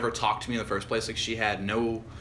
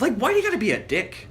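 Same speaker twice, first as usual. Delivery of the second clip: high, put-on whine of protest; mock complaint; 10 semitones higher than usual. Guy grumbles as if to the girl, mock complaining. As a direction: complain in a much higher, put-on voice.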